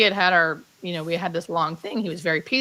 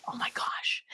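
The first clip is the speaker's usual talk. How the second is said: barely voiced, softer still; awed whisper; 11 dB quieter than usual. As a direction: breathe it out in wonder. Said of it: "Like that".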